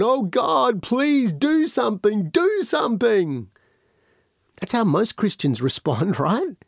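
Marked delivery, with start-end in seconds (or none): 0.0-3.5 higher, pleading mock prayer; a hint of panicked pleading to God; begging prayer. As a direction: imitate a desperate begging Christian. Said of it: "they start begging God and going".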